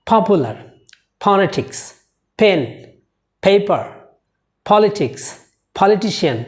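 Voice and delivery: পপুলার with an aspirated ফ; aspirated example words. Shown as a demonstration. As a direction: breathe on each p. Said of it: "আমরা ফ বলবো".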